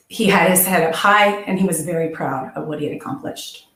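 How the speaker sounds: moved, fighting to keep it together; real emotion. Real, not acted. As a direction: voice catching with real emotion, held back. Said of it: "I get a little emotional about William".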